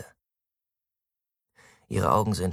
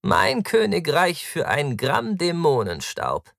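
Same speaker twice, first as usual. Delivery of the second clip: loud, high, slow declamation; mock-dramatic cry, high and stretched; theatrical plea; 11 semitones higher, 5 dB louder, slower than usual. A narrator's reading. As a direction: declaim it grandly, drawing the words out. Taktus theatrically craves drugs.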